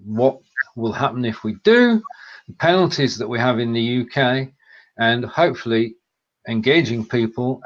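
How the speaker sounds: measured, clearly enunciated announcement; radio commercial read. Real, not acted. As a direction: practise a decent radio voice. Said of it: "Well, what a good commercial".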